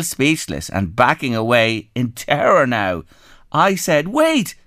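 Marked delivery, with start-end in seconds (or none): 4.1-4.5 high drawn-out wait; playfully calling after her; mock friendly call. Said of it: "friendliest smile".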